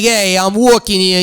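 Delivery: mock New Yorker; put-on New York street complaint; New York accent. Shown as a demonstration. The speaker shows the host a New York pedestrian, in a New York accent. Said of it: "that's like a New York".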